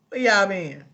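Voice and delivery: loud but back at normal pitch; toned-down mock demand. Host repeats her question to late viewers, toned-down mock demand.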